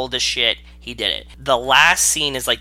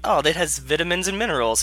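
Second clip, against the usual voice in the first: mock British accent, pitched up; casual British-accent impression; imitated British accent; 5 semitones higher than usual. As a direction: do Bear Grylls saying it in British. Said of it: "with Bear's accent".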